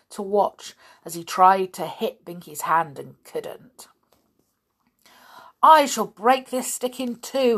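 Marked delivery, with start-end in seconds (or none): 5.6-7.6 higher, louder burst of temper; sudden rage. A narrator's reading. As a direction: cry it out in a story-villain rage. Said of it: "he cried suddenly in a rage".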